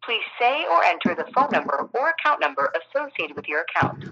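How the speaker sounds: phone menu voice. Real, not acted. Automated phone system prompt.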